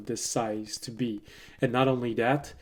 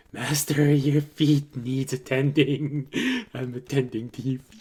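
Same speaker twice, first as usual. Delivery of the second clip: kobold voice; 2 semitones higher, 3 dB louder than usual. Acted. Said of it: "in this voice of a, uh, of a, a, a kobold".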